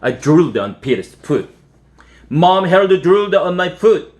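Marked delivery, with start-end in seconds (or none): 2.3-4.1 1 whiny complaint. A narrator's reading. Kid complaining to mom.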